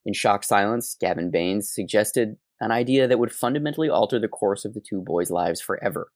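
measured, scripted podcast narration; story narration. Acted. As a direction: read it out like a documentary narrator. Reads the scripted story aloud.

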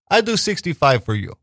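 badly faked Jamaican haggler; amateur Jamaican impersonation; shitty Jamaican accent. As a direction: offer a deal in poor Jamaican. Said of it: "I do a shitty Jamaican accent".

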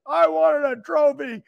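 slow, mildly plaintive retold child's complaint; almost in tears, imitated. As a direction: imitate a disappointed kid, lightly. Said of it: "he was almost in tears".

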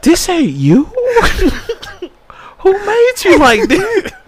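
high, incredulous laughing question; laughing disbelief. Retold or imitated. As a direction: squeal it through your laughter, voice shooting up. Laughing retold reaction to the boxer.

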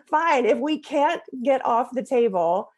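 high, slow and fed up, half laughing; hammed-up exasperated Fine, laughing at herself; mock angry outburst. Mom retelling snapping at her son, mock angry.

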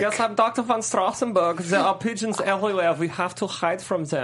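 lightly acted monotone doctor, unruffled; one-note doctor. Doctor warning of pigeons everywhere, one-note calm. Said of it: "He's very one note".

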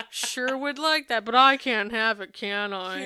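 put-on slow, drawn-out sly little girl; hint at wanting it, sweetly; coy angling child. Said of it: "She literally say".

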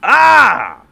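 put-on high, loud, slurring drunk rant; belligerent drunk. Voicing a drunk bigot in antebellum era.

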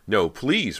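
loud, high plea; pleading. A narrator's reading. Brant to the ghost who would keep him, pleading. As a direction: beg desperately. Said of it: "Brant pleaded".

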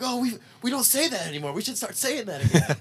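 high goofy voice, laughing; mock bandmate voice. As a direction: squeak it like a silly bandmate.

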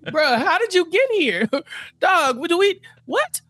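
as a neighbor baffled by newcomers, incredulous and high. Retold or imitated. Mock bewildered neighbor.

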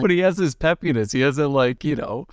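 put-on high, fast and peppy like an old film star; fast animated old-movie talk. Shown as a demonstration. Imitating Jack Lemmon's peppy fast old-movie patter. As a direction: rattle it off like a forties movie actor. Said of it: "they talk really fast and they're really animated like this".

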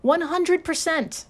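high, slow big announcement; dramatic reveal. Real, not acted. Revealing the shocking result to listeners, slow and high. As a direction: land the number like a drumroll payoff. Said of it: "Drum roll, please".

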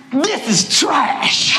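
slow, deliberate this is trash; mock solemn honesty; blunt verdict. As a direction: drag out each word of This is trash. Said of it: "I said".

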